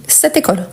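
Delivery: "cette école" run together as one word; "cette école" with no gap between words; liaison. Shown as a demonstration. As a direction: link the t of "cette" straight into "école". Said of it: "On fait la liaison automatiquement".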